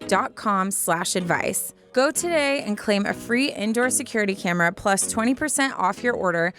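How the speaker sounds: even, measured sponsor read; polished host-read commercial; podcast ad read. Acted. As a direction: read ad copy smoothly to listeners. Reads a sponsor ad.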